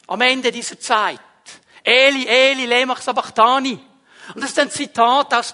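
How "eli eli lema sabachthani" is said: Jesu Schrei, laut ausgerufen; lauter Schrei. Acted. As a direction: ruf es laut und verzweifelt. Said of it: "er schreit dann". (Jesus schreit am Ende der Dunkelheit zu Gott, laut)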